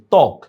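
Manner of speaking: ত্বক said "tok", cut off at the k; ত্বক as one closed syllable, "tok"; stopped final K. Shown as a demonstration. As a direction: say ত্বক with a silent ব and no end vowel. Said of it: "দেখো শেষে থেমে যাচ্ছে".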